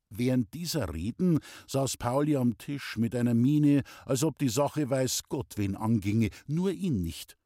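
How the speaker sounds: ordinary delivery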